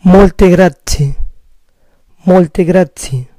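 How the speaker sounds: Molte grazie said slowly, stress on MOL-te; Italian molte grazie, slow. Shown as a demonstration. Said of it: "Muchas gracias".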